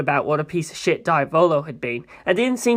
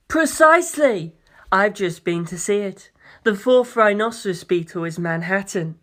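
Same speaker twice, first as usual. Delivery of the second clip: lightly voiced proud president. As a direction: talk down grandly like a president. President voice continues.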